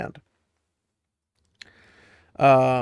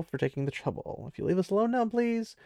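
polite brush-off; 6 semitones higher than usual. Retold or imitated. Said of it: "And he's like".

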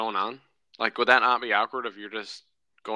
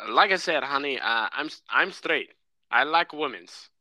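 put-on light Hispanic accent, a bit higher; imitating Hispanic accent; 4 semitones higher, slower than usual. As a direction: mimic a guy on the phone in a Hispanic accent. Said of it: "I hear in this little Hispanic accent".

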